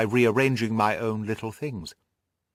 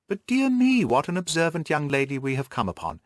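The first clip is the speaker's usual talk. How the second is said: jesting tone; 4 semitones higher than usual. Acted. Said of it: "He spoke in a jesting tone".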